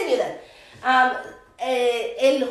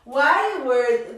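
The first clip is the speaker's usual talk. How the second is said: linked natural speed. Shown as a demonstration. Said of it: "pero usualmente ... se conecta un poco".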